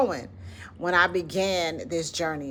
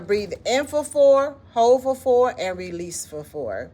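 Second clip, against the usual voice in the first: guided breathing count; 4 semitones higher, 4 dB louder than usual. Shown as a demonstration. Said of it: "So let's do it again".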